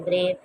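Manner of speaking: ब्रेव with the ए held long; long vowel. Shown as a demonstration. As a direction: draw out the ए in ब्रेव. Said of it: "ए की sound को हमने long यानी लंबा करके पढ़ना है". (ब्रेव में ए को लंबा खींचें)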